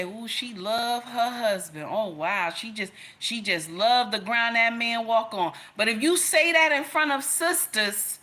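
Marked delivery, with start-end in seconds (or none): 0.0-5.5 imitating admiring women. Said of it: "They say".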